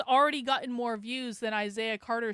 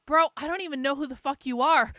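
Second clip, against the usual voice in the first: louder, incredulous "Bro"; exasperated retort; 6 dB louder than usual. Retold or imitated. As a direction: shoot it back at the haters. Acted retort to online haters.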